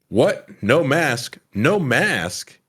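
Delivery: acting out a stunned questioner; mock shocked disbelief. Stunned reply in retold play.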